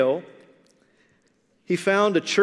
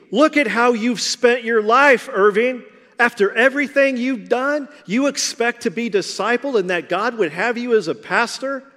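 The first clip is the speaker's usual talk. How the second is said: higher, louder retold rebuke; angry voice; 5 semitones higher, 3 dB louder than usual. Preacher voicing the church leader's angry rebuke of Irving. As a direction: scold him like a furious church leader. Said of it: "said to him in a very angry voice".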